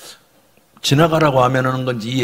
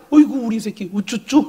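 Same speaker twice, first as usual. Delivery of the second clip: put-on higher-pitched cooing to a child; doting parent; 6 semitones higher than usual. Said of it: "세상 말로". (아이를 어르는 높은 목소리)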